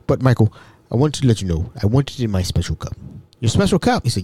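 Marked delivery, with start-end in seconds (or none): 0.1-2.9 measured, lightly imitated African accent; touch of a formal African voice. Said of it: "Mbutu was an African".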